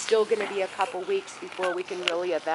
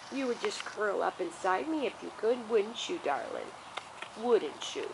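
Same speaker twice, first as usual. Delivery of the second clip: tender coo; 5 dB quieter than usual. Real, not acted. Cooing to dog in lap.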